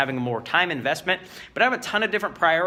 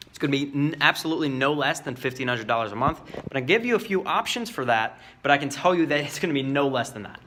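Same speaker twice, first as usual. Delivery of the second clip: calm. Shown as a demonstration. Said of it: "if you say it calm".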